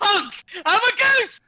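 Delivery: high, loud honking goose voice. Pretend. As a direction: honk it out like a silly goose. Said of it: "No, honk".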